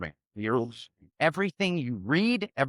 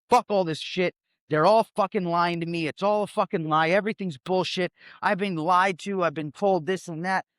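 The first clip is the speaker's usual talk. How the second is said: mildly heated, higher-pitched venting; angry rant; 4 semitones higher than usual. Acted. Acting out the anger of waking up to being lied to, angry rant. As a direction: vent like someone fed up with being lied to. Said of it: "you just get fucking angry".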